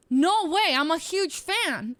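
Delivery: loud, high, slowed fan exclamation; excited fan. Retold or imitated. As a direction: gush like a starstruck fan. Boss recognizes her as a fan.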